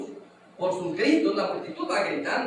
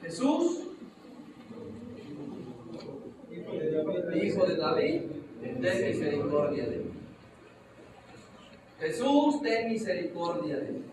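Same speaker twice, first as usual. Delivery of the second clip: blind man crying out for mercy; calling out. Acted. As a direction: call out to Jesus, pleading. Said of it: "Le grita".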